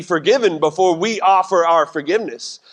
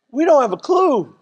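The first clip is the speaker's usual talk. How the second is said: clueless husband, louder and higher; louder repeat; 8 semitones higher than usual. Shown as a demonstration. Pastor to wives, playing the clueless husband. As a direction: say it again, up and out.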